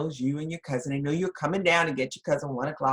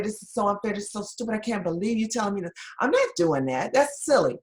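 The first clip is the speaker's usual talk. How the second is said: indignant; 4 semitones higher, 3 dB louder, faster than usual. Retold or imitated. Nurse protests to charge nurse.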